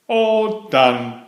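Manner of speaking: put-on a kid bursting to leave; small turtle done with lunch; eager child. Franklin rushing out.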